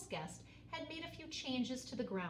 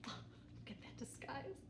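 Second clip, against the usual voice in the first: laughing; 5 semitones higher, 11 dB quieter than usual. Acted. Onlookers laughing at disguise.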